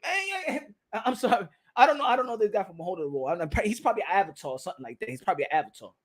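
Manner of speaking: soft, low, hesitant aside; sheepish apology act. Acted. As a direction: apologise under your breath, playing embarrassed. Acts interviewer disowning the intruder.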